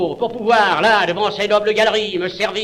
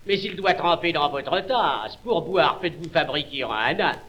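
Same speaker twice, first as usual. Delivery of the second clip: softer, mock friendly advice; 3 semitones lower, 5 dB quieter than usual. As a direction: offer it kindly, softer.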